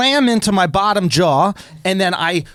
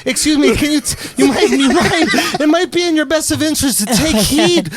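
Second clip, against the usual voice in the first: hesitant, over-polite imitation, pitched up; mock polite warning; 5 semitones higher than usual. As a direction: mimic her timidly tiptoeing round a warning. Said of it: "She went like this".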